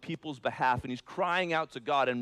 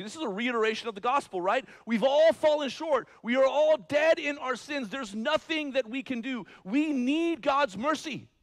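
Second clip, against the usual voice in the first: high, loud fervent preaching, slowing at the end; sermon at full volume; full-force preaching; 12 semitones higher, 8 dB louder than usual. Acted. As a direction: proclaim it to the back row. Gospel recap at full force.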